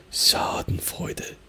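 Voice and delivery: slow "Schadenfreude" with a held "Scha"; German "Schadenfreude", first syllable long; long first vowel. Shown as a demonstration. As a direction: stretch the "a" in "Schadenfreude". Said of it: "The R is relatively long".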